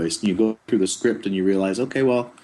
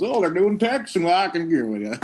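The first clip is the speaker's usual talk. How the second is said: put-on high voice; 8 semitones higher, 3 dB louder than usual. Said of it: "the new person comes in and goes".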